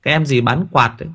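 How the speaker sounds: put-on high, gushing show-off girl, then settling down; proud teen girl. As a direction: brag like a teenage girl proud of her looks. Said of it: "em tự hào". (giọng cô gái tuổi teen khoe khoang, cao vút)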